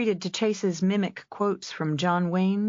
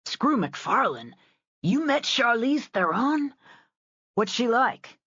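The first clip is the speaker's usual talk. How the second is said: a higher, louder burst of eager disbelief; can't believe it, has to know more; excited, pressing; 7 semitones higher, 3 dB louder than usual. Acted. Rory pressing Callan about meeting Charlize Theron, excited and loud.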